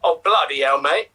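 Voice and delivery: put-on English accent. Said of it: "continue this with an English accent".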